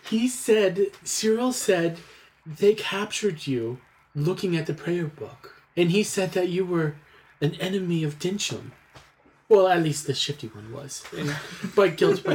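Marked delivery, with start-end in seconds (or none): 0.1-8.7 lightly voiced servant, higher pitched; a touch of urgency, pitched up; earnest servant. Servant telling the master what Cyril said, mildly urgent.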